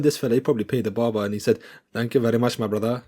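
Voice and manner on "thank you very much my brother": lightly put-on Indian accent. Fighter thanking his barber after a haircut, Indian accent. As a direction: imitate a grateful customer in an Indian accent. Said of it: "I put on an Indian accent".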